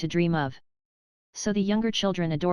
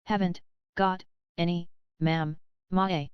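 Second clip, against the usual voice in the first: howling wail. Acted. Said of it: "Lottie howled tempestuously".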